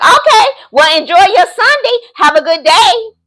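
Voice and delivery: high, singsong mock-pleasant goodbye; airy brush-off. Woman cutting short a man's call, airy high brush-off. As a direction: send him off in a high, polite lilt. Her retold brush-off to the man.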